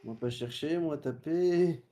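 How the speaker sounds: slow dopey caveman voice; dopey cartoon bellow. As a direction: drawl it like a dim brute. Caveman talk joke.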